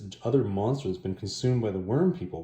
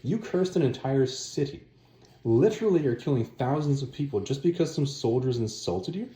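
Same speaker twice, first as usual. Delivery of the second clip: rude; 5 semitones higher than usual. Retold or imitated. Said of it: "makes some really rude comments".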